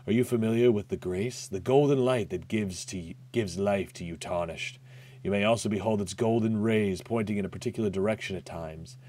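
a hint of a sly old stranger; understated cryptic merchant voice; lightly voiced mysterious guide. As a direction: read it like a knowing NPC. Voicing game NPC dialogue.

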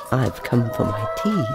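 low, sly menace; sly fox. Acted. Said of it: "he said slyly".

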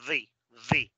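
The, the with a short th; in fast speech; quick th. Shown as a demonstration. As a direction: say the quickly with a brief th. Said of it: "en corto vas a decir".

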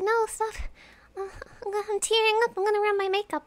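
lightly mimicked girl welling up; imitating tearful girl. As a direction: play her half-crying, pleading to stop. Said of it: "And she's like".

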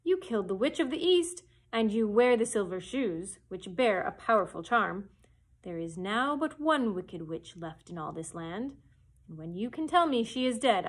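loud, commanding wizard head; booming wizard Oz. Acted. The great head sets Dorothy his price, loud and commanding. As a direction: lay down the terms loudly, like a stern wizard.

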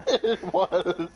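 very high, cackling witch voice; cartoon witch voice. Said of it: "you sound like a cartoon witch".

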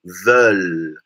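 low, drawn-out "Veulent"; open-mouthed eu vowel. Shown as a demonstration. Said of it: "boca aberta".

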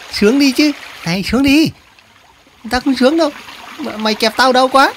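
lightly voiced high-pitched creature; squabbling little animals. Crab and spider tussling at the water, high and insistent.

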